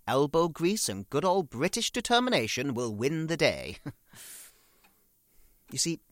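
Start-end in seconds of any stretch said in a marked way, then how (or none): 0.1-3.8 louder rallying tone; rally yourself like a wartime speech; loud stiff-upper-lip rallying; rousing self-pep. Retold or imitated. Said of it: "I said".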